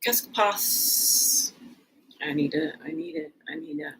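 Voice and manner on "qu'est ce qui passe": French. Shown as a demonstration. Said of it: "trying to say French words".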